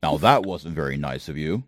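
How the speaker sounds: low, dry undead knight; calmly offended armored skeleton. Acted.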